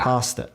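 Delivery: "pasta" with a long ah, PAH-sta; Aussie pronunciation, imitated. Briton mocking Aussies, imitated Aussie pronunciation. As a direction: say "pasta" softly as PAH-stuh. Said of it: "they have to go".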